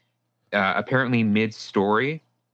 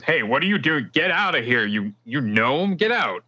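angry bartender; 4 semitones higher than usual. Acted. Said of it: "seems to be a bit angry and says".

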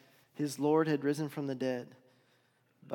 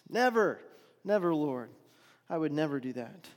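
emphatic protest; 3 dB louder than usual. Acted. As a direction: protest hard, as if wounded by the claim. Peter insists at the Last Supper.

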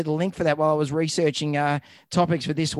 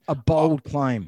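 slow deadpan; much slower than usual. Shown as a demonstration. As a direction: drag it out dryly.

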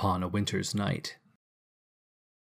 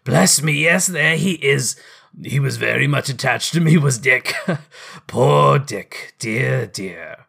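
put-on remember an old friend with delight; fond excitement; 2 semitones higher, 4 dB louder than usual. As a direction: Scrooge delighted to see Dick, a touch louder.

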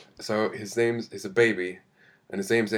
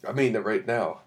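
eating cereal while talking; mouth full; 3 dB quieter than usual. Real, not acted. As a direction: talk through a mouthful. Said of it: "Oh, that's what that noise is".

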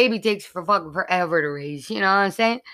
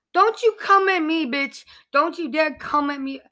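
mock indignant; 6 semitones higher than usual. Mock-indignant rant at critics.

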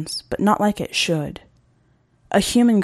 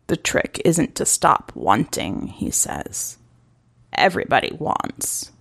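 low hunter; 3 semitones lower than usual. Acted. Hunter's quiet reply.

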